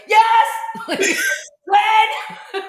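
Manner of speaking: high, loud, laughing yes; eager yes. Retold or imitated. Host recalling being asked onto podcast, high eager yes. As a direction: leap at the offer.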